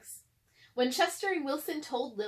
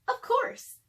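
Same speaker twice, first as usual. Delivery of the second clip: very high, louder squeaky reply; Lily's voice; 14 semitones higher, 5 dB louder than usual. Acted. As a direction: chirp it out proudly. Lily answers in character.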